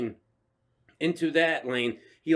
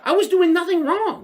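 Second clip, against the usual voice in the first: loud, high-pitched grievance; indignant protest; 13 semitones higher, 6 dB louder than usual. Real, not acted. Storyteller insisting to his friend he was innocent, indignant.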